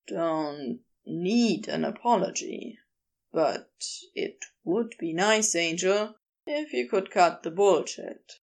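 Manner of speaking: lightly voiced low character, blunt but fond; understated low, frank character voice; Crowley, gently frank.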